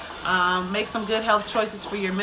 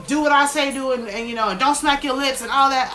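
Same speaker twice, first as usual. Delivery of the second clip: strict parent; 4 semitones higher, 4 dB louder than usual. Retold or imitated. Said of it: "a culture where it's like".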